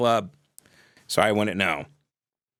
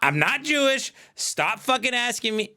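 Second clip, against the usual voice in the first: exasperated plea; 10 semitones higher than usual. Real, not acted. Exasperated high pleading.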